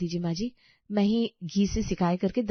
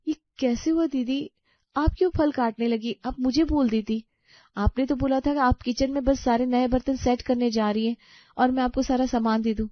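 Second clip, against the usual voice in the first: louder, agitated questioning; alarmed protest; 3 semitones higher, 5 dB louder than usual. Acted. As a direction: defend yourself in worried disbelief. Shocked, defends herself against blame. (घबराकर सफ़ाई देना)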